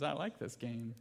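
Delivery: put-on soft, laughing little-girl line; playful child. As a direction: giggle it like a toddler teasing her dad. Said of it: "She says".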